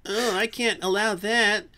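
high, loud, laughing mock voice of a friend; hammed-up squeaky mockery through laughter; mocking impression. Teasing his friend about religion, high mocking squeal. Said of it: "and he's like".

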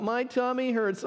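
put-on slow, whiny little-boy complaint.

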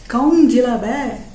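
slow, drawn-out Hindi-dialect question; a rough street-tough regional Hindi accent; slow regional Hindi taunt. Shown as a demonstration. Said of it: "some regional accent".

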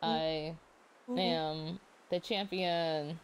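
slow, drawn-out champion's boast; triumphant boast. Acted. Winner gloats to racing companion, slowly and triumphantly. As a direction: stretch it out like a victory proclamation. Boasting after winning the race.

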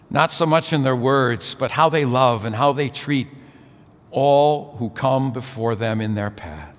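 measured, reverent blessing prayer; spoken church blessing, settling down to the amen. Real, not acted. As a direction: pray formally over a couple, phrase by phrase. Prays a blessing over couple.

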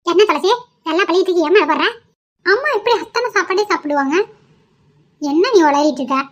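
mother-in-law snapping at daughter-in-law; scolding mother-in-law. Acted. (மாமியார் கோபமாக திட்டுதல்)

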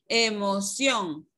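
"emoción" drawn out slowly, weight on CIÓN; slow teaching demo of "emoción", stressed at the end; stress on last syllable. Shown as a demonstration. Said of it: "la que va a llevar la mayor fuerza de voz".

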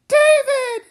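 very high loud scream; anguished scream. Acted. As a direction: scream his name in horror. Wife screams.

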